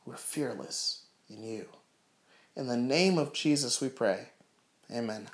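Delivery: heartfelt prayer, gradually hushing; earnest prayer. Real, not acted. Preacher praying to God for his listeners, earnest prayer.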